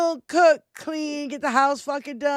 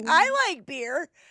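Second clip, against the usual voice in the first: mock crying in a put-on voice. Mocking a crying public figure's testimony: imitating Brett Kavanaugh crying. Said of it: "Kavanaugh crying".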